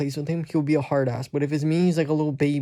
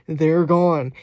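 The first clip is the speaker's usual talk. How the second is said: louder, laughing insistence; emphatic repeat; 6 dB louder than usual. Real, not acted. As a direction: hammer it home, amused.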